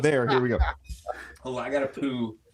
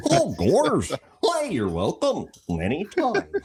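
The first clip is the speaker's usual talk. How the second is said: lightly voiced Goofy, a bit higher; 4 semitones higher, slower than usual. A hint of Goofy. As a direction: guest thanking the host as Goofy. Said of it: "Thank you, Goofy".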